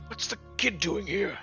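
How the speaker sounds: lightly voiced guard, pitched a touch up; a hint of a puzzled guard; guard's question. Guard NPC's gruff question.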